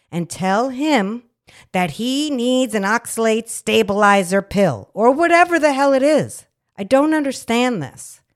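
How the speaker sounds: rising to a loud indignant peak; angry rant. Real, not acted. Nurse venting at the doctor selling pills, angry and loud. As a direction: build to an outraged climax. Ranting about offered pills.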